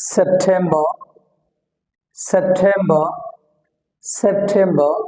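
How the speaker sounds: সেপ্টেম্বর ending in open "ba"; silent final R. Shown as a demonstration. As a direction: drop the R closing সেপ্টেম্বর, airy T. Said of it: "এটা উচ্চারণ হবে না".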